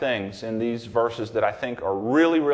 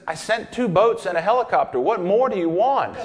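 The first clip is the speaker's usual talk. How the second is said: mock exasperated God; 5 semitones higher than usual. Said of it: "And God says".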